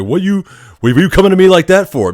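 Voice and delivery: offended comeback; retold indignant pushback; indignant patient.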